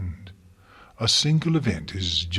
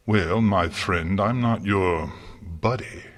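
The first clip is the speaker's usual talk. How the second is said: snooty retort. Acted. Gardener snaps back in quarrel.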